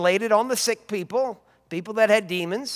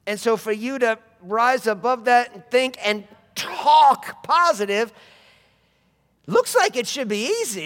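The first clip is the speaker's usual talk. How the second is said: preaching at full force; 4 semitones higher, 3 dB louder than usual. Acted. Preacher urging the congregation to speak God's word.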